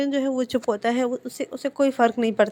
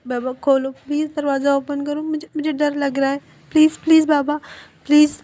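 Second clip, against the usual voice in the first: scared pleading; 4 semitones higher than usual. Retold or imitated. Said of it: "knock करते हुए कहता है". (डरे हुए बच्चे की तेज़ होती गुहार)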